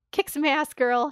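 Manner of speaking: high, loud cheer for her; root for her like a fan in the stands. Real, not acted. Fan cheering on Bear to her co-host, loud and high.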